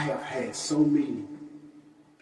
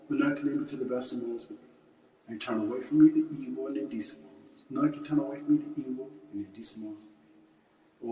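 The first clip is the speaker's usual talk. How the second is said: prayer recitation. Real, not acted. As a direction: recite a memorized prayer, each phrase falling away at the end. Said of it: "we want to recite the Muslim prayer".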